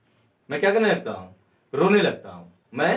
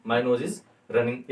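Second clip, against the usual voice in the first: 1 slow model sentence; 5 semitones lower, much slower than usual. Shown as a demonstration. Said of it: "ये भी हम बोल सकते हैं".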